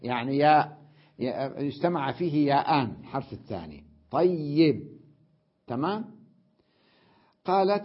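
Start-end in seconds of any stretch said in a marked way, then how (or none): 4.1-4.8 طيب said loudly with a held double y, "tay-yib"; doubled y. Shown as a demonstration. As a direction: lean on the shadda in طيب. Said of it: "مشدد".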